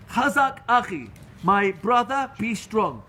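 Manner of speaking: rally a fallen brother; rousing encouragement. Acted. Voicing encouragement to a struggling friend.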